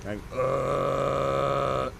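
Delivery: sustained grinding growl; false fold growl. Shown as a demonstration. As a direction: hold a steady grind. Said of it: "learn how to do the grind".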